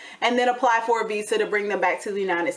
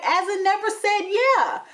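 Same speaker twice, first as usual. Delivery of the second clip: sarcastic; 9 semitones higher than usual. Retold or imitated. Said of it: "And I'm like".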